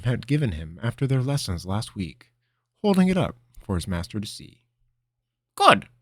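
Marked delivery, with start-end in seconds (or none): 5.5-5.9 approving. Acted. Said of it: "Linram said approvingly".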